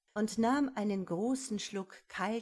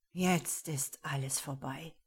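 despairing whisper; voiceless whisper, all is lost; 3 semitones lower than usual. A narrator's reading. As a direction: breathe it out hopelessly.

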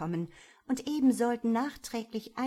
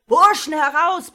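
rising rallying yell into the night; top-of-the-lungs call to arms; student shout; 9 semitones higher, 18 dB louder than usual. A narrator's reading. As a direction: call the lads out at full voice. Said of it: "klang es durch die dunkle Nacht".

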